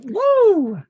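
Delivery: high whoop of triumph; sudden cheer at the dice; excited whoop. Real, not acted. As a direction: cheer the lucky roll. Cheering a good reroll.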